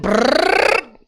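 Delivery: rolled "brrr" rising in pitch; imitated machine noise. Strapped into the coaster seat, trilled machine noise. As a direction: mimic the ratcheting restraint with a lip trill.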